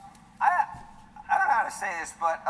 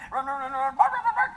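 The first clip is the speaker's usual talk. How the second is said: frantic dog; 7 semitones higher than usual. Pretend. Comic acting out the dog chasing squirrels, frantic yaps. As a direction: yap like a crazed terrier.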